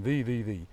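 repeated "the" with soft th; "the" in an even chant, tongue-tip th. Shown as a demonstration. Tracing the accent down the road, soft-th "the". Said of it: "So here we're going".

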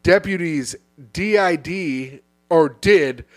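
slowly sounding out D I D; puzzled, letter by letter; slow confused reading. Real, not acted. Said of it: "why is it all capital".

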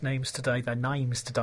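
slipping into a hint of Cockney; Cockney accent. Real, not acted. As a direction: let a touch of Cockney colour "names today". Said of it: "a sort of Cockney accent there".

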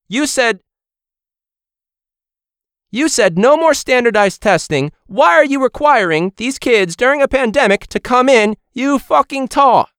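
high-pitched ranting British chef; Gordon Ramsay. Acted. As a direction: berate them in a hammed-up British accent. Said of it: "could get Gordon Ramsay".

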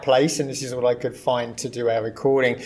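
echoey room sound, voice bouncing back; talking in an echoey empty room. Real, not acted. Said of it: "I sound a bit echoey".

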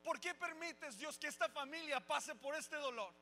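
questioning God. Retold or imitated. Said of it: "cuestionando a Dios".

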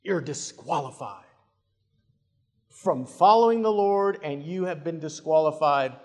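weighty verdict, swelling in the middle and dropping away; self-righteous, judgmental. Acted. Judgmental Christian passing sentence on Peter, self-righteous and final. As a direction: hand down the condemnation with finality. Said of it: "the voice of the self-righteous, judgmental Christian".

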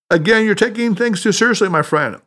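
gently mock a too-serious friend; amused through laughter. A narrator's reading. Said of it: "interrupted him with booming laughter".

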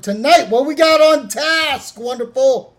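talking around ice cubes; ice in mouth. Real, not acted. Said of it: "you got me with ice in my mouth".

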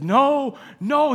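high, mildly alarmed retold refusal; upset. Preacher voices Isaac rejecting what Esau says, upset. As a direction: act out a distressed father's denial. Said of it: "He's upset".

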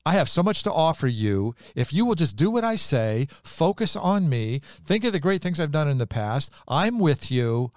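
voicing God. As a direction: speak as God pleading to be trusted, lifted and bold. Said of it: "He's like".

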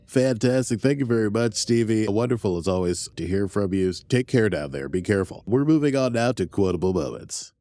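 lightly hammed-up news anchor; mock studio anchor. Anchor thanking a correspondent, lightly mock broadcast voice. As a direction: play the anchor taking back the broadcast.

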